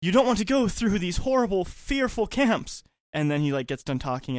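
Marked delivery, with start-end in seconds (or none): 0.0-2.8 mock biblical prophet. Villain quote continued.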